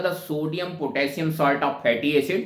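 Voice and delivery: slow dictation. Shown as a demonstration. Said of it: "तो आपको कहा गया था".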